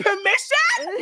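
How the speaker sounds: drawn-out, high incredulous question; incredulous attitude. Acted. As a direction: stretch it out in disbelief. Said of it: "you sound like a hood rat".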